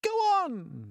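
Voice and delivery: high, loud frantic urging; frantic cry. A narrator's reading. Creatures on the peach urging on, frantic. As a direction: urge them on in a panic. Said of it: "they cried frantically".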